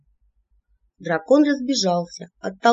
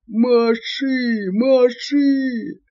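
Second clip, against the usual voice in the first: higher, loud repeated cries; urgent yelling; 5 semitones higher, 3 dB louder, much slower than usual. A narrator's reading. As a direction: urge it on frantically. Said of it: "поддержал его своими воплями". (вопли)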